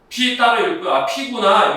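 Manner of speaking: P on its own, set off by a pause; teacher shows students reading P separately, read apart. Shown as a demonstration. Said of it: "연달아 읽지 말라고".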